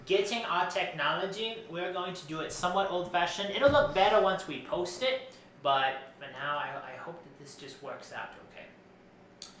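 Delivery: lilting, theatrical designer character voice; fussy costume designer Edison. Acted. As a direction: play a self-important fashion designer, pitch swooping. Plays Edna Mode's cousin Edison.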